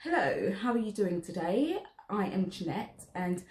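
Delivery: lightly posh, brisk receptionist greeting; posh accent. Shown as a demonstration. Mum greeting a customer as Jeanette, lightly posh accent. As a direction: put on a mild posh accent. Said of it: "So we're gonna speak posh".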